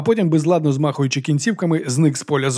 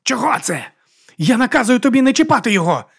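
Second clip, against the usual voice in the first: high, loud commanding yell; shouting order; 8 semitones higher, 3 dB louder than usual. A narrator's reading. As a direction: shout the order to stop her. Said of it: "закричав брат Діас".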